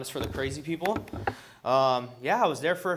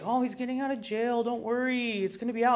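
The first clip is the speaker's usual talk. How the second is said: higher, mocking imitation of his sister; 8 semitones higher than usual. Imitating his sister brushing off his complaint, mock higher voice. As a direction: brushes him off in a raised, dismissive voice. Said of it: "She's like".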